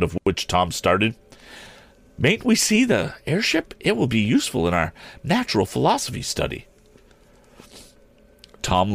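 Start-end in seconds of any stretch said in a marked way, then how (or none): 2.2-6.7 put-on high-pitched young lady's voice; pleading schoolgirl. A narrator's reading. Pupil asks Miss Perkman to see the airship, pleading.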